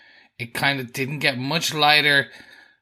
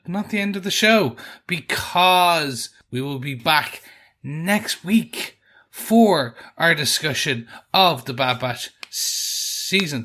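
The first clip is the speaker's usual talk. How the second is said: podcast sign-off. Acted. Host signing off until next week's episode, announcer style. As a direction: stretch key words like a show announcer.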